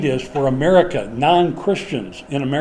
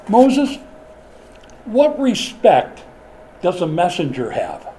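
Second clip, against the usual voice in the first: scolding retort; 3 semitones higher, slower than usual. Retold or imitated. Preacher retorts to Moses.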